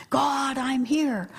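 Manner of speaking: slow, lightly acted seeker's call; meditator calling to God. Meditator announces himself to God, slow lightly acted call. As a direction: draw the words out, calling to God.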